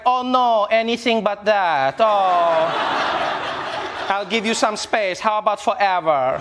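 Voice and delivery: mock-dismayed, then dry and laughing; sarcastic relief. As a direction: fake dismay, then a sly jab. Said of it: "Melania was probably like".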